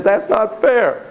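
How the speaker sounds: put-on slow, whining child's complaint; whiny kid. Kid whining to parent about fairness. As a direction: whine it like a sulking kid. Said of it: "Little Pumpkin says".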